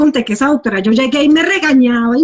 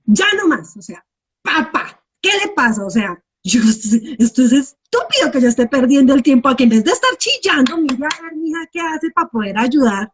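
scolding herself; 3 semitones higher than usual. Retold or imitated. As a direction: snap yourself out of it, half-mocking. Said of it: "cierro los ojos y digo".

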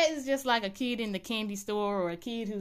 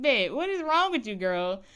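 mock dismay; 2 semitones higher, 4 dB louder than usual. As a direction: call out to the screen in disbelief. Reacting to Bet's crying laugh.

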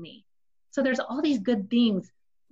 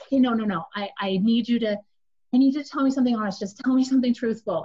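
rising demand; 3 semitones higher, 4 dB louder, faster than usual. Retold or imitated. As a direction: push harder, the anger climbing. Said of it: "it's raising".

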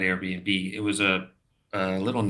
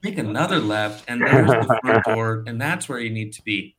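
brisk, higher and louder directions; clerk suddenly helpful; 4 semitones higher, 6 dB louder than usual. Retold or imitated. Clerk snapping out directions to the tourist, loud and quick. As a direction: rattle off the way like she knew English all along. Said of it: "she was in perfect English".

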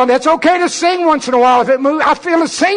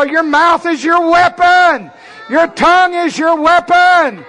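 preaching; 3 semitones higher, slower than usual. Real, not acted. Preacher proclaiming.

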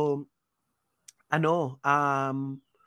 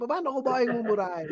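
higher, through a laugh; laughing ask; 7 semitones higher than usual. Retold or imitated. Teasing coworkers while laughing at himself. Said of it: "Lagi kong sasabihin".

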